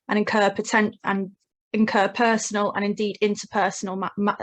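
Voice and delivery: nervous stumbling over words; tripping on words, flustered; stage fright. Real, not acted. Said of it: "I'm so nervous right now".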